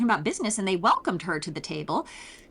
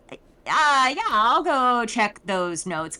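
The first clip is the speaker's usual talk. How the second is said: awkward excuse; 2 semitones higher, 4 dB louder, slower than usual. Retold or imitated. Nerys uncomfortable, making an excuse.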